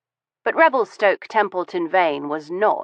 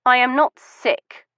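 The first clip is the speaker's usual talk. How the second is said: insistent; 8 semitones higher, 4 dB louder than usual. Acted. Insisting denial.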